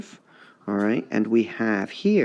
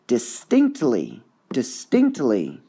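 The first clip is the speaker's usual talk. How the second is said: distinctly slowed, testing which syllable is strong; trying stress on distinctly; slower than usual. Shown as a demonstration. Teacher testing stress on distinctly. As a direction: sound out distinctly slowly. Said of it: "all sorts of tricky".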